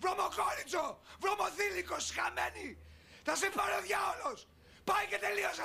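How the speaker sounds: put-on shouted curses at the girl; angry insults. Mother cursing daughter.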